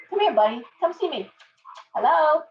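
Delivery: high coaxing call to a bird; high sing-song pet call. Real, not acted. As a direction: lift the voice up to coax the bird over. Coaxing her bird over.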